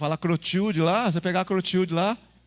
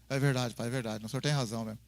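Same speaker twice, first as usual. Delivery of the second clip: put-on meek child; 10 semitones lower, 6 dB quieter than usual. Filho arrependido responde baixinho.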